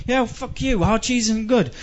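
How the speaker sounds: ordinary talk, nothing marked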